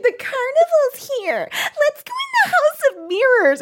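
put-on very high, girlish squeal; put-on giddy high voice; giddy excitement. Jessica urging him into the House of Mirrors, giddy excitement.

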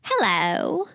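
slow, lightly voiced awkward character; light character impression, mostly own voice; Jerry Blank impression. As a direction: drag it out like a clueless oddball. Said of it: "I'll do Jerry Blank from Strangers with Candy".

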